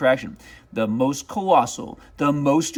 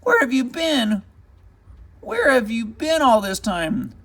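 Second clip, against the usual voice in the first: put-on eager boy questions; 8 semitones higher than usual. Boy greets dog.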